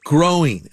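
"growing" set apart by pauses and stressed; emphasis on GROWING. Real, not acted. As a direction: lean on the word "growing". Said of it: "I want to emphasize that word growing".

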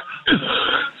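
sudden rough coughing in the throat; harsh throat-clearing cough; real cough. Real, not acted. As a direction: cough to clear something stuck. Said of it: "I thought you were acting".

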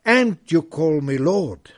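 loud, ringing proclamation of the verse; proclaimed loudly. Acted. Preacher to his congregation, proclaiming the verse loudly. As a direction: call it out to the whole church.

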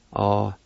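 "Oceloti" in long separate syllables, D run into the LA. Shown as a demonstration. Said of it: "read the D with the L A like this".

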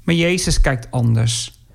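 usual speaking voice

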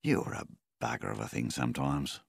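gently. Acted. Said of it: "Milvin said gently".

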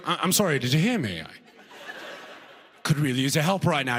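politely hesitant, lightly British plea; a puzzled Brit asking for help; British accent. Acted. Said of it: "like a British person".

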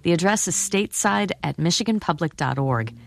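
scripted host read inviting messages; radio listener call-out. Acted. Host reads listener call-out over music.

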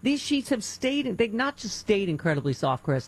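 enthusiastic personal endorsement read; live ad read. Acted. Radio host praising bamboo sheets to listeners, upbeat ad read. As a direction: sell it like a favorite product.

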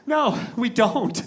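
slow, drawn-out earnest reply; humble, honest admission. Retold or imitated. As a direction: own up humbly, taking your time. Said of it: "as humbly and honestly as I could".

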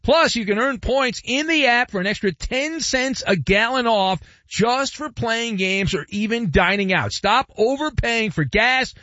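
measured, emphatic radio sponsor read. Real, not acted. Host pitches a gas savings app to drivers, ad read. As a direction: sell it clearly, slowing on the closing slogan.

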